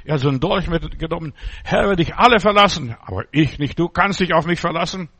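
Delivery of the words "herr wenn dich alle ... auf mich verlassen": Peter's boast. Retold or imitated.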